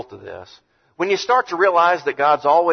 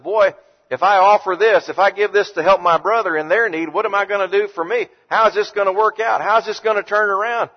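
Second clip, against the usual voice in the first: anxious self-talk; 6 semitones higher than usual. Retold or imitated. Worried inner voice of giver.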